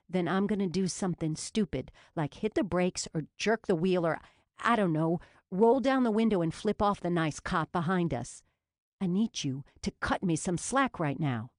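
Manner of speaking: tense, teeth clenched; through gritted teeth. Acted. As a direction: force every word through the teeth. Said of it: "Jules said through her teeth".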